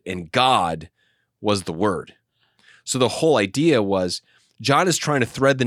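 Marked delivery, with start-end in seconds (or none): 0.0-2.1 "God" stressed, then a pause before "was the Word". Shown as a demonstration. Teacher showing the Greek word order, emphasis on "God". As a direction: put the weight on "God" and let it hang. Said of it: "flips the word order in the Greek and emphasizes".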